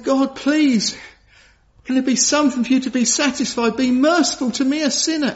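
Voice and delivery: pleading prayer. Retold or imitated. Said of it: "He's saying".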